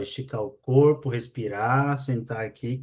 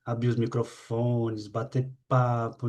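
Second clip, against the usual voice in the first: softer and slower, slumped chat voice; tired, softer, slower chatting tone; low-energy tone; 3 semitones lower, 5 dB quieter, slower than usual. Shown as a demonstration. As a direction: let the energy drain out as you speak. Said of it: "nesse tom aqui".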